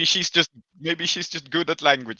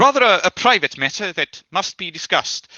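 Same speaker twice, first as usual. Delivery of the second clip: Vickers hedging; 3 semitones higher than usual. Acted. Vickers still says it despite wrong context, lightly formal hedging. Vickers hedges about secret business.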